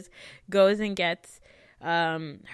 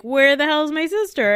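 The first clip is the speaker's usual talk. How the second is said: mock angry demand; 8 semitones higher, 9 dB louder than usual. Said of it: "he's like".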